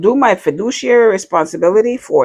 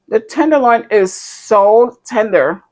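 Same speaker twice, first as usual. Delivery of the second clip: slow whisper of delight; 5 semitones higher, slower than usual. Real, not acted. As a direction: breathe it slowly, savoring. Savoring the meat.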